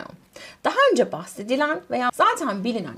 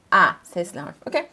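ordinary talk

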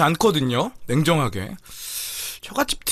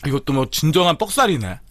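chewing while talking; speaking between bites; mouth full of chicken; 3 semitones lower than usual. Real, not acted. Seen 4: Eats chicken throughout, mouth working and biting at 1.4 s.

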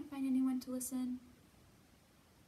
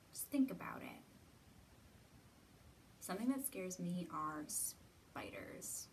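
soft whisper; 3 semitones lower, 4 dB quieter than usual. Acted. Sharing a fear quietly.

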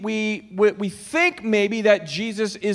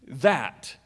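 mock demand; much slower than usual. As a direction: demand it, drawn out with a pause before the last word. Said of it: "if I were to demand something".

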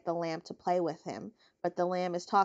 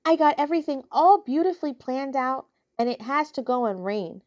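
gloomy complaint; 4 semitones higher, 4 dB louder than usual. Acted. Wilbur complains about rain.

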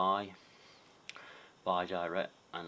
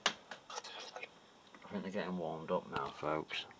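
whispering; slower than usual. Real, not acted. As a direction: whisper it slowly to the viewers. Hushed remark during spirit box session.

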